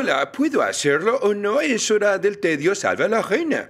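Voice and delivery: mock Chinese accent on request; attempted Chinese accent. Shown as a demonstration. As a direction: put on a token Chinese accent. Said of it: "puedes hacer un acento chino".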